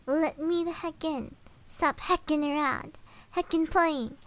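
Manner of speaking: lightly voiced, slow halting words with no rhythm; a hint of a thing mimicking human speech, slow; halting weird voice. Creature at the door imitating a voice, mild halting. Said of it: "in this halting, weirdly toned voice".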